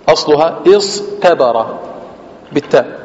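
normal talking voice

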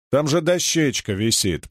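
usual speaking voice

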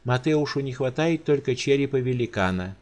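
a careless noblewoman chattering; carefree countess. Acted. Countess casually explains her gift to the giant.

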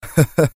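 short scornful laugh; mocking laugh. A narrator's reading. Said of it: "ضحكة ساخرة أطلقها نافون". (ضحكة ساخرة)

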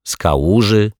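a teasing, disbelieving query rising on kałuży; mocking question. Detective teasing the janitor, mocking disbelief. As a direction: scoff at the idea with a lifted kałuży.

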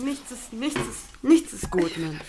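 shaky, desperate repetition; crumbling under the guilt; distressed breakdown. Real, not acted. Distressed after outburst.

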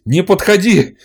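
high, loud furious yell; shaking with anger. Acted. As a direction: warn them off in rage. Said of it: "аж руки трясутся от злости".

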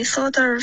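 sort of, no r, slow; teacher models sort of; sort of without r. Shown as a demonstration. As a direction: drop the r in sort of. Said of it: "不要加儿化音".

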